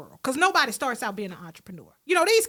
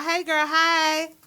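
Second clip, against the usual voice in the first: put-on slow, breezy "hey girl" drawn out; relaxed sister-to-sister hello; casual girlfriend greeting; 5 semitones higher, much slower than usual. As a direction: greet her like your homegirl. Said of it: "I had to".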